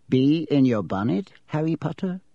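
a sly little voice in his ear; talking hat. A narrator's reading. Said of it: "a small voice said in his ear".

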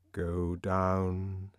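quiet, commanding loudspeaker voice; soft, level loudspeaker announcement; soft imperious command. Acted. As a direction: issue the order softly but firmly. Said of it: "very softly and yet very imperiously".

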